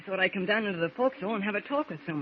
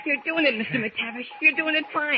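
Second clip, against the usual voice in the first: higher and louder, thrilled it works; excited cheering; 7 semitones higher, 4 dB louder than usual. Acted. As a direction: cheer him on with rising excitement. Radio message finally going out.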